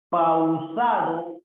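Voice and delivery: slow, stretched syllables; sounded-out word. Shown as a demonstration. Teacher checking words for hiatus, slowly sounded out. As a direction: draw the word out to test its vowels.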